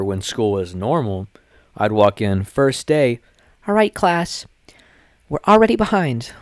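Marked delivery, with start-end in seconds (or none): 3.7-6.3 high whispered teacher impression. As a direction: hiss it like a fussy teacher. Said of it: "And I'd be like".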